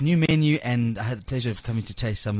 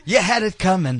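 laughing; 6 semitones higher, 4 dB louder than usual. Real, not acted. Teasing with laughter.

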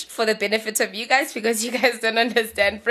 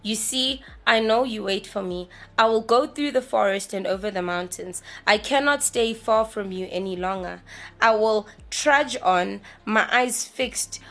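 poem reading. Acted. Reads the poem aloud.

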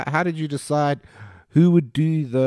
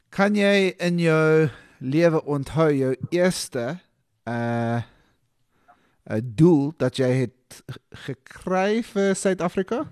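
Afrikaans accent; 3 semitones higher, slower than usual. Shown as a demonstration. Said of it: "show my Afrikaans accent 'cause it's, uh, horrendous".

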